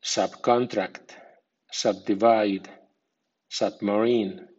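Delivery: slow subcontract, subdivide, submarine with secondary stress on sub; slowly, sub-di-VIDE pattern on subcontract, subdivide, submarine; medium stress on prefix. Shown as a demonstration. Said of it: "Ahora con acento medio".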